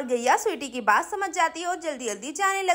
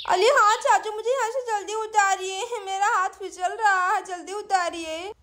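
put-on lightly lisped child voice; pleading little girl; 4 semitones higher than usual. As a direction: beg like a small child in trouble. Sweety pleads with uncle. (तुतलाती बच्ची की मिन्नत)

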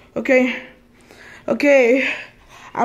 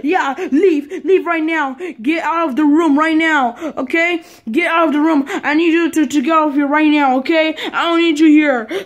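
bossy mock parent; 3 semitones higher than usual. Pretend parent chasing kid out.

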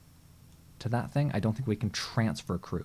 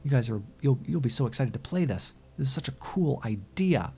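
mock excitement; 4 semitones higher than usual. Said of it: "I was all excited about it".

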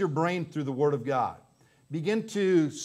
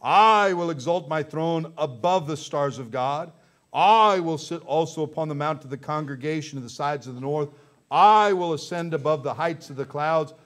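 each opening I stretched out and swelled loud; boastful Lucifer; 4 dB louder than usual. Acted. Preacher quoting Lucifer exalting himself above God, boastful declaration. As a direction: proclaim it as a proud, defiant boast. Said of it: "talking of Lucifer".

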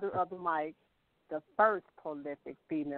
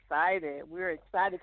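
mildly excited, lifting at the end; a touch of excitement; slower than usual. Real, not acted. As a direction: let some real excitement into it. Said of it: "Can you hear this excitement in our voice".

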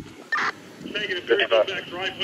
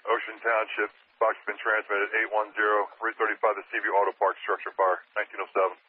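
urgent firefighter radio. Real, not acted. Fire dispatch radio call.

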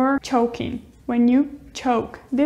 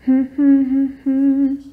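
humming; 4 dB louder than usual. Shown as a demonstration. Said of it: "I'm humming right now".

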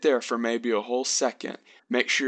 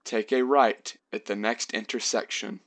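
calm, even robot voice. Retold or imitated. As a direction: speak like a monotone robot examiner. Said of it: "that little robot voice".

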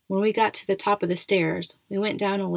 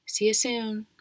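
higher than normal; 4 semitones higher than usual. A narrator's reading. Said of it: "her voice sounding a little higher than normal".

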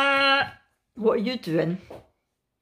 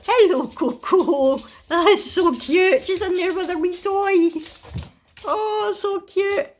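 cooing over puppy; 6 semitones higher than usual. Real, not acted. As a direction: fuss sweetly over a puppy.

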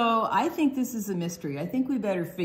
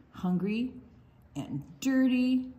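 read-aloud refrain; slower than usual. Acted. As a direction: draw out each phrase for the little ones. Refrain repeated.

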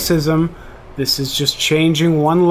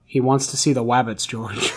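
Lenny voice; 3 semitones lower, 4 dB quieter than usual. Retold or imitated. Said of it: "That's Lenny".

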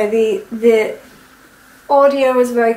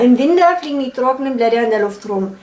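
Franconian accent; faster than usual. Shown as a demonstration. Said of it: "How I would imitate a Franconian accent".

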